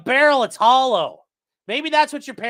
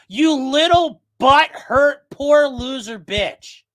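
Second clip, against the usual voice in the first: taunting; 4 semitones higher, 7 dB louder, slower than usual. Real, not acted. Taunting the judge.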